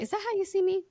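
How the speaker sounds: high mock-offended question; mock hurt surprise. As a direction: pretend to be wounded, playfully. Hurt by friend's remark.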